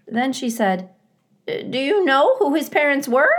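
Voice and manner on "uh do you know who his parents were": high, loud fussy goose; a bossy mother goose peering down. A narrator's reading. Goose voice, Loudwing.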